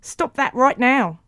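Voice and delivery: slow, high, loud recorded command; tape recording voice. A narrator's reading. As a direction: imitate a tape replaying an order. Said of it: "went the tape recording".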